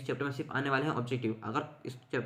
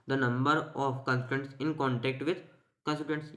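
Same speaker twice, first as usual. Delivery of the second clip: slow dictation; much slower than usual. Shown as a demonstration. Dictates definition to students.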